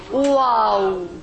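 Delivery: "Wow" with lips rounded into a circle; "Wow", lips made round like a circle; letter Waw. Shown as a demonstration. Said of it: "How you pronounce the letter?".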